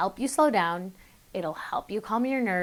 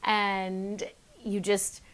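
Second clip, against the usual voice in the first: slow sighing; much slower than usual. Shown as a demonstration. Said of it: "You don't have to let out a sigh".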